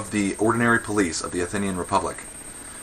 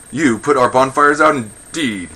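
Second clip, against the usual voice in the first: higher, louder scoffing challenge; incredulous retort; 5 semitones higher, 10 dB louder, slower than usual. Acted. Men answering the women with water, incredulous retort. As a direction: throw it back in mock disbelief.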